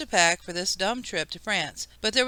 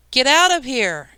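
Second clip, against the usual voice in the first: louder, higher burst of a fed-up mother; angry shout; 5 semitones higher, 5 dB louder than usual. A narrator's reading. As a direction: shout the child out of the room. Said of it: "she shouted".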